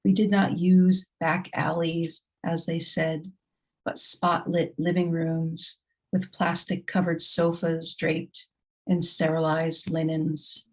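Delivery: measured, deliberate poetry reading with pauses between lines; poem reading. Acted. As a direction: let each image land in a grave, steady reading.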